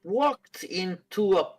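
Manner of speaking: high, slow djinn voice with drawn-out words; knowing djinn. Acted. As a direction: draw out the guess, lifting high on the last word. Game master plays the djinn.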